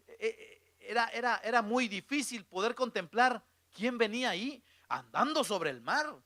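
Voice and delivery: ordinary talk, nothing marked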